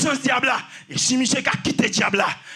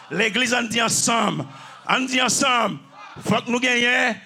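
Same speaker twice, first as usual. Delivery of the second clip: insistent call-and-repeat sermon delivery; rally the church with punched repeats; rousing preaching. Real, not acted. Preacher urging the church to speak together, rousing preaching.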